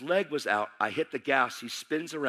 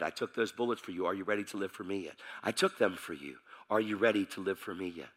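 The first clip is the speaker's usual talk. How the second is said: low, softened voice from inside the head; solemn divine voice; 6 semitones lower, 5 dB quieter than usual. Retold or imitated. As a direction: drop low and solemn, as God speaking. Solemn divine voice heard in his head.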